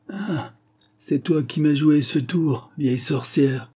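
a hammed-up shout at the old witch; a grandfather crying out at the woman who tricked him; old man's cry. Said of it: "cria le vieux".

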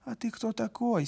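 high, sneering clerk voice; insolent clerk. A narrator's reading. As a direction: snap it out with contempt. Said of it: "с дерзким взором".

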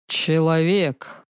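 slow, scornful booming dragon; contemptuous dragon voice. A narrator's reading. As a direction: growl it out with contempt like a huge beast. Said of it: "Угрюмый голос, исполненный презрения".

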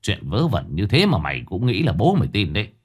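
sullen scolding. Acted. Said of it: "hầm hầm giọng mà mắng".

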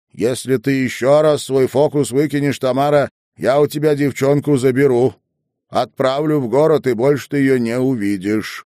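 threatening, every word cold and hard; cold and calm. A narrator's reading. Headwoman threatens grandmother to take the girl, icy loud. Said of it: "Голос её звучал спокойно и холодно".

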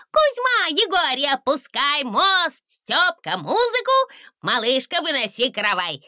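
высоко, громко, радостно командовать; суетливо раздавать приказы; excited orders. A narrator's reading. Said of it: "Восторженно засуетился он". (восторженно и высоко)

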